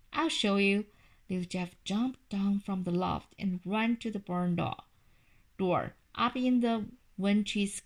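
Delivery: put-on steady storybook narration for a child; reading a story aloud. A narrator's reading. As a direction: read the chapter to your kid at bedtime. Parent resumes reading the story.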